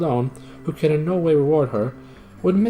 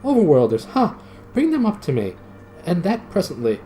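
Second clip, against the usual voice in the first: shouted; 9 semitones higher than usual. Acted. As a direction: fling the command down, higher. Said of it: "it shouted".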